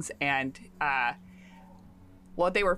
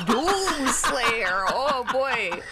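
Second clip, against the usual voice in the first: loud, high gleeful cry; thrilled outburst; delighted exclamation; 6 semitones higher, 4 dB louder, much slower than usual. Acted. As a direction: shout the name with delight.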